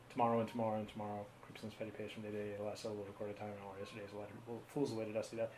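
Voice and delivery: rattles off Macbeth lines, quick and soft; a half-hearted Shakespeare recitation, hurried; recited monologue. Pretend. Host asked for a monologue, recites Macbeth quickly and softly. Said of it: "Do I have a monologue memorized that I could share".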